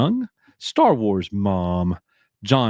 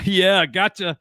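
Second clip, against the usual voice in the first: laughing; 8 semitones higher than usual. Real, not acted. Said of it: "He's laughing".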